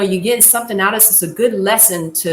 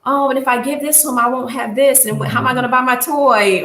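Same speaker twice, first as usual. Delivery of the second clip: higher, whiny mock complaint; grudging kid; 4 semitones higher than usual. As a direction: play the selfish kid who won't share. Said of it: "Don't say".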